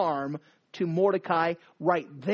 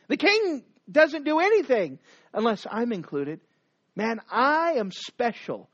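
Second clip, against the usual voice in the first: bragging Haman; 3 semitones higher than usual. Acted.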